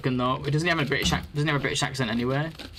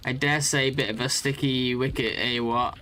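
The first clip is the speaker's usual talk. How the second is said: slow, hammed-up posh British accent; mock posh British; slower than usual. British streamer jokingly doing an exaggerated posh British accent. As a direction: play a stuffy old English gent, British accent. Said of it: "doing British accent".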